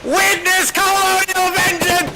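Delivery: rousing soldier proclamation; officer war cry. Acted.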